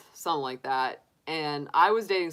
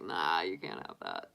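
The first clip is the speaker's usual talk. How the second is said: mock refusal; 13 semitones lower, 9 dB quieter than usual. Refusing to share soda.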